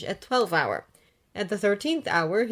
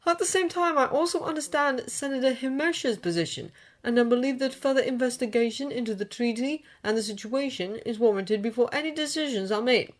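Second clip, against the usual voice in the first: smooth; 6 semitones higher than usual. A narrator's reading. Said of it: "Obi-Wan says smoothly".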